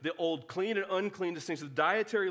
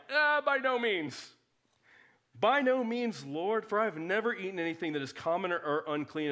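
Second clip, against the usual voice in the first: Peter protesting; 2 semitones higher than usual. Retold or imitated. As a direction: play Peter recoiling from the unclean food. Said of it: "But Peter's just like".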